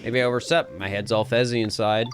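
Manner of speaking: put-on sleepy folksy Southern accent; country Southern voice, amiable and a bit groggy; Southern Gyarados. Sleepy Gyarados hinting for a hot meal, Southern accent. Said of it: "why they made Gyarados Southern".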